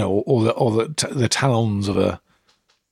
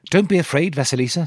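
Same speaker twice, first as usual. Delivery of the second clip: too calm creepy doll; 5 semitones higher than usual. Acted. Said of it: "said the doll".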